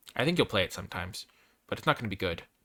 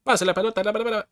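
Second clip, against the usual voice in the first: higher, excited announcer patter; mock Spanish commentator; 11 semitones higher, 3 dB louder, faster than usual. Streamer imitates a fast Spanish soccer commentator, excited. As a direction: rattle it off like a match caller. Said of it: "soccer goal being scored".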